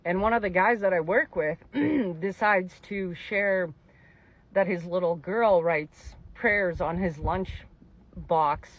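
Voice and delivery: trying hard not to cry while telling it; real tears held in, words dragged out; holding back tears. Real, not acted. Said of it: "I have to pause".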